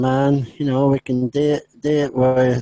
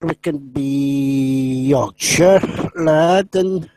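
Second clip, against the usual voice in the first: mock Yorkshire accent; slower than usual. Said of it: "That doesn't sound like Yorkshire".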